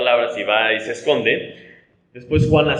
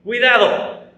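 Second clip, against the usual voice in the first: higher, sharp warning shout; sudden cry of alarm; 9 semitones higher, slower than usual. Shown as a demonstration. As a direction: call out a danger warning. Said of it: "Un clamor muy típico puede ser".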